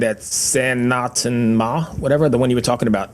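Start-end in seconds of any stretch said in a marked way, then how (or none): 0.3-1.9 Sanatan Ma drawn out slowly in a New York accent, rising on Ma; New York accent on Finnish. Real, not acted. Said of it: "horrible New York accent trying to pronounce Finnish".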